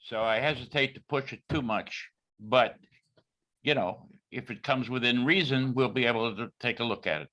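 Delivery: speaking up. Real, not acted. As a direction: speak up so the room can hear. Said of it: "Could you speak up".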